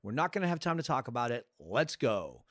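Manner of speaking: brisk, no-debate retelling, dropping at the end; definitive. Retold or imitated. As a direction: imitate someone laying down the plan. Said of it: "he says it so definitively".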